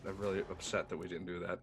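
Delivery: ordinary talk, nothing marked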